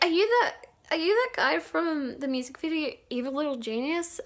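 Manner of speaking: reenacted fan excitement, pitched high; high, eager retelling of a fan's question; starstruck asking. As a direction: ask it like a giddy fan spotting someone famous.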